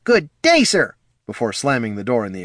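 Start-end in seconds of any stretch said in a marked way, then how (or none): 0.0-0.9 a short, pitched-up growl; growled farewell. A narrator's reading. Poldo growling goodbye before slamming the door. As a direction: bite off the goodbye. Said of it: "He managed to growl".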